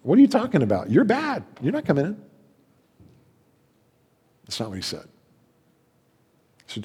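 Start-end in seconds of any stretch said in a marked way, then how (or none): 0.0-2.2 mock dismissive Jesus. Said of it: "And Jesus said".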